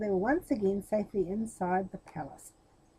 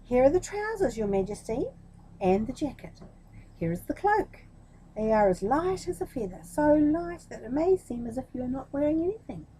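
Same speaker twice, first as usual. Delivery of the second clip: a hint of a fawning crook, pitched up; lightly voiced swindler; 4 semitones higher, 4 dB louder than usual. Thieves presenting the emperor's invisible suit, lightly fawning. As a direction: sell the nothing-suit with oily charm, lightly.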